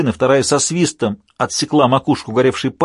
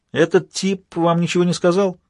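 shouting over noise; 7 semitones higher than usual. A narrator's reading. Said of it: "прокричал он сквозь шум".

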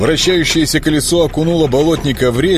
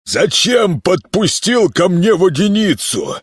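higher, snarling miller's voice; spiteful miller; 10 semitones higher than usual. Acted. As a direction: sneer the question with a mean grin. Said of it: "Злобно осклабившись".

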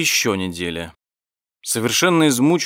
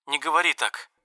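near hysterics; 6 semitones higher, 3 dB quieter than usual. A narrator's reading. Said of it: "приближалась к истерике".

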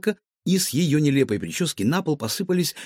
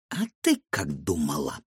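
низко и тихо, с угрозой; злодейка снисходительно усмехается над девочкой; зловещая гадалка; 10 semitones lower, 4 dB quieter than usual. A narrator's reading. (гадалка зловеще и низко отвечает пленнице)

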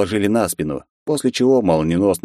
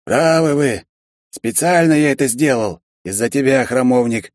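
flustered lizard; 6 semitones higher than usual. A narrator's reading. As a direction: blurt it out. Lizard confesses. (высокое смущённое признание)

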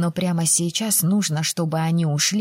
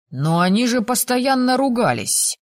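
high-pitched, baffled objection; astonished, pushing back; incredulous protest; 5 semitones higher, 3 dB louder than usual. A narrator's reading. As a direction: protest in raised-pitch disbelief. Shocked student protests again.

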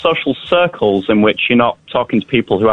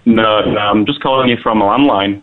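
caller on a phone line; phone-line sound of a caller; over a landline phone; 8 semitones higher than usual. Real, not acted. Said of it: "some sort of satellite delay".

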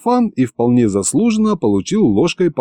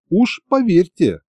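slow, higher, earnest female character voice; serious assurance; 8 semitones higher than usual. A narrator's reading. Masha warns Monsieur Theodor, seriously assuring him. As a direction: assure him gravely, taking your time. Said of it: "вдруг серьёзно произнесла Маша".

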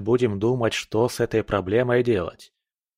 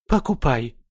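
commanding; 4 semitones higher, 3 dB louder than usual. Acted. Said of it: "скомандовала".

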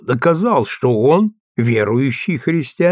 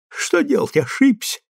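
heavy sigh; 12 semitones higher than usual. A narrator's reading. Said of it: "тяжело вздохнул майор".

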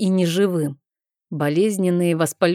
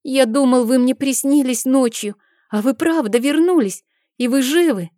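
put-on higher child's voice, eager and amazed; a small boy who can't believe she's alive; little boy; 7 semitones higher than usual. A narrator's reading.

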